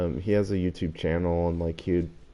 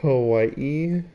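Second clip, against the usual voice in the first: incredulous; 6 semitones higher, 5 dB louder than usual. Real, not acted. Puzzled echo of the word.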